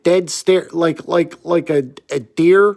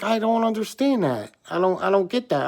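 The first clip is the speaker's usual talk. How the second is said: puzzled clerk; 4 semitones higher, 4 dB quieter, faster than usual. Retold or imitated. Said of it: "She's like".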